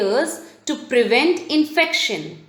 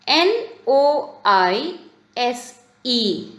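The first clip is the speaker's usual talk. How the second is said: slow classroom spelling; slower than usual. Shown as a demonstration. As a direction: spell it slowly, letter by letter. Teacher spells the underlined word.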